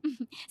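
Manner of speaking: a short polite giggle; soft polite laugh. Acted. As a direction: giggle lightly before speaking. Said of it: "Tanuja मुस्कुराकर कहती है". (शर्मीली हल्की हँसी)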